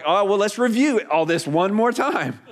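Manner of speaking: hammed-up exasperated patience; mock patient recap. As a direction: imitate an angel humoring a doubter. Angel imagined humoring a doubting Zechariah.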